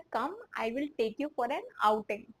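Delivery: slow, deliberate model line; slow translation. Shown as a demonstration. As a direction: dictate it slowly. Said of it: "इसको हम बोल सकते हैं".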